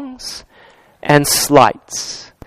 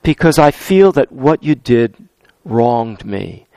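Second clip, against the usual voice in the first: soft hurt; 7 semitones lower, 4 dB quieter, slower than usual. Shown as a demonstration. Pastor models a soft I statement to someone who hurt him, quietly. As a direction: lower and softer, slowly confessing the hurt. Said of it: "we can say".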